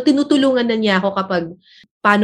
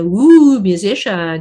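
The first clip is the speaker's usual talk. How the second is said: mock impressed; 4 semitones lower, 4 dB louder, much slower than usual. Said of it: "sabi niya".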